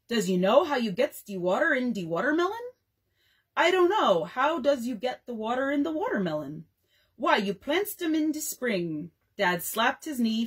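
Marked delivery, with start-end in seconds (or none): 0.1-2.6 minstrel show voice. Acted. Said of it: "played the parts of both the Messrs. Jones and Bones". 3.5-6.6 minstrel straight man. Acted. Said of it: "played the parts of both the Messrs. Jones and Bones". 7.2-9.1 minstrel show voice. Acted. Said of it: "played the parts of both the Messrs. Jones and Bones".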